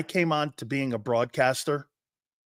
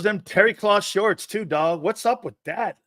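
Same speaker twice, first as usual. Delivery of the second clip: Jerome Brown; 5 semitones higher than usual. Retold or imitated. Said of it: "he goes".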